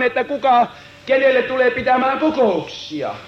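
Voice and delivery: rising, driving revival sermon; fervent preaching. Acted. Preacher urging the congregation to surrender, fervent preaching. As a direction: preach it with growing fire.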